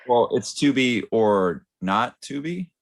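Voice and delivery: slow, hammy Hamlet delivery; mock Shakespearean. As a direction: declaim it like a stage actor. Hamlet pun, slow and grand.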